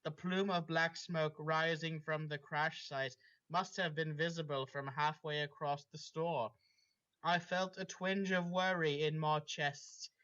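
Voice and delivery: dramatic read-aloud of a fanfic; story reading. Acted. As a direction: narrate it like the opening of a novel.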